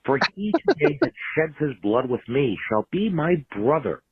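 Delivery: grand theatrical speech delivery; Shakespeare recitation. Pretend. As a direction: declaim it like a stage actor. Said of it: "allow me to quote the Saint Crispin's Day speech".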